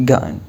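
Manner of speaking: gotten with the tt as a glottal stop. Shown as a demonstration. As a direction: say gotten as go'en, no t sound. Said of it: "ينطقوها كأنها همزة".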